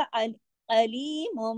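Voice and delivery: अलीमुम slow, ending on m not n; Quranic recitation. Shown as a demonstration. Teacher shows iqlab in अलीमुम. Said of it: "अलीमुन नहीं पढ़ेंगे".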